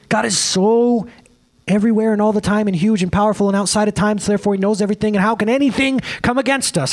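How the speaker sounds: impassioned, run-on rant; going off. Real, not acted. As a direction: build an urgent argument without letting up. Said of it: "I don't know why I went off on that".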